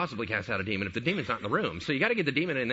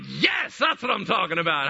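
higher-pitched, delighted shout of approval; excited approval; 4 semitones higher, 4 dB louder than usual. Retold or imitated. Jesus answering the woman's quick wit, excited approval. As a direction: cheer them on, loud and thrilled.

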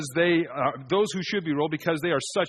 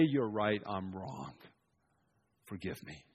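soft, humble admission, sinking away; 7 semitones lower, 9 dB quieter than usual. Shown as a demonstration. Preacher models a humble reply to an angry ruler, soft and sinking. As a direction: give in gently, almost under the breath. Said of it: "for you to say".

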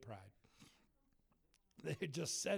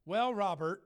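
loud catty address, imitated; mock a catty organizer; pointed, put-on cattiness; 7 dB louder than usual. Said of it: "he's just so catty with me".

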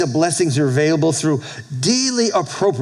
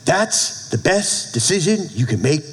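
measured, with pauses between phrases; slow and deliberate. Real, not acted. Pastor giving a quote to write down, slow and deliberate. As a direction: spell it out slowly for note-takers. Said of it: "I'm gonna say this slow".

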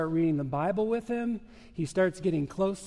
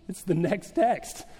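laughing reply. Retold or imitated. Retelling answer, laughing.

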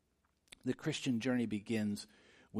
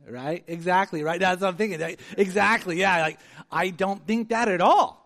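fired-up sarcasm; 7 semitones higher, 12 dB louder than usual. Real, not acted. Excited sarcastic rebuttal.

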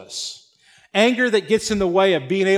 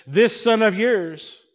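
disdainful; 4 semitones higher, slower than usual. Acted. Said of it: "when he says".

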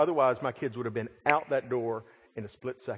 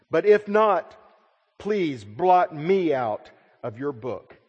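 desperate plea; 4 semitones higher, 7 dB louder, slower than usual. Acted. Moses pleading for the people.

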